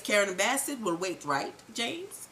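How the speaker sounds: low, quiet knowing threat; a hint of a cold kingpin; menacing Milan. Recapper voicing Milan letting Ghost know he knows, low and quiet. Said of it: "And Milan says".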